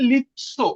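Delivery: লিৎসো with a distinct "ts" in the middle; pronunciation demo. Shown as a demonstration. Teacher showing students the pronunciation, লিৎসো with a distinct "ts". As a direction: model লিৎসো as "lit-so". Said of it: "এটার উচ্চারণ কি".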